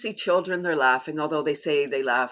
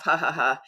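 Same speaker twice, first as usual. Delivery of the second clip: polite laugh. Shown as a demonstration. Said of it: "When we decide that it's funny, we laugh".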